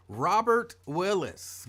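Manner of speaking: slow, drawn-out name call, only slightly up. Real, not acted. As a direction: call the name with mild excitement, not yelling. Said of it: "my voice is a little raised and I'm excited".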